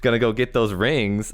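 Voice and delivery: Sonic voice. Retold or imitated. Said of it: "Sonic-esque".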